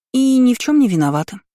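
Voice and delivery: high-pitched little sister's chime-in; girlish protest. A narrator's reading. Youngest twin disclaiming blame, high protest. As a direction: pipe up high, pleading innocence. Twin pleads innocence to mage.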